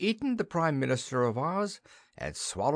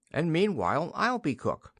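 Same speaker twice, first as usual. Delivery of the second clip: smiling; 7 semitones higher than usual. A narrator's reading. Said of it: "smiled Rosa Mary".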